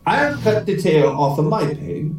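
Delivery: measured Irish brogue; Irish accent. Acted. Young Paddy says this is serious, Irish accent. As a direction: explain the plan as an Irishman. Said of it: "try out my Irish accent".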